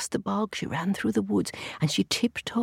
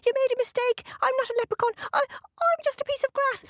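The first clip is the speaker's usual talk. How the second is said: leprechaun. A narrator's reading. Leprechaun character continues.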